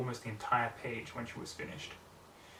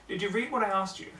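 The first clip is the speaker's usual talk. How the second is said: Twilight voice; 8 semitones higher, 4 dB louder than usual. Acted.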